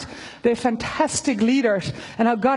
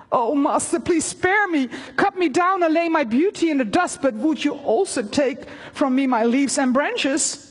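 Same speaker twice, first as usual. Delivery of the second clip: higher, begging tree voice; pleading bamboo; 4 semitones higher than usual. Acted. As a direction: plead to be spared. Bamboo begs again.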